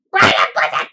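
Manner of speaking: low, loud boom; booming actor voice. Retold or imitated. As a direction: bellow the name like a big actor.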